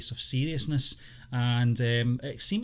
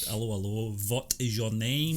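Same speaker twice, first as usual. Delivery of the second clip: mock German accent. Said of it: "you can go really silly with".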